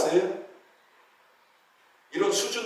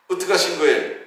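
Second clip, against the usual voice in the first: ordinary talk, nothing marked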